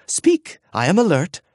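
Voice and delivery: high, bright sentry voice, snapping to attention; high eager guard voice. Acted. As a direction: jump up with a high eager reply. Gruffanet's high eager reply.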